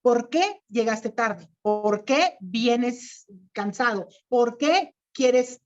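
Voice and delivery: slow, clear question tune on "¿Por qué?"; slow example questions; questioning demo. Shown as a demonstration. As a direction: model each "¿Por qué?" as a real question, slowly. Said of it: "Es para hacer preguntas".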